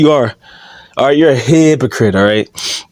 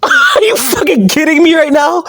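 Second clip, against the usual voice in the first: high disbelief; 11 semitones higher than usual. Real, not acted. Outraged disbelief continues.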